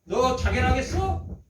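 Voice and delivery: slow mocking question, rising at the end; retold drawn-out taunt; sarcastic. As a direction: imitate a scoffer, stretching 자결하겠어 upward. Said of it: "두 번 비꼬서 이렇게 말합니다".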